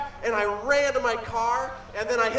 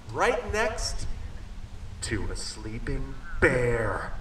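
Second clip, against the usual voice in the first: hushed suspense; 13 semitones lower, 7 dB quieter, much slower than usual. Acted. Storyteller builds suspense for kids.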